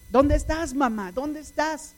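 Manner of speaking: mild mock call, voice lifting on each question; an understated cry for a missing mother. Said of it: "Gritándole a su mamá con mucha intensidad".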